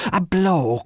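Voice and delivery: loud, high outraged exclamation; big meaty outburst; rich meaty cry. A narrator's reading. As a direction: cry it out, full-throated and indignant. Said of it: "cried Missus Cork now in a rich, meaty voice".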